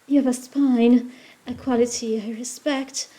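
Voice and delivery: lightly put-on British accent. Witch sizing up the detective, British accent. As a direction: give her a measured British accent. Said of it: "Why is she British?".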